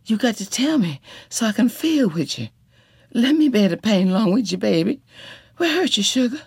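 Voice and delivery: high, tender comforting; calm a frightened man at night; soothing. A narrator's reading. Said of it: "She soothed and soothed".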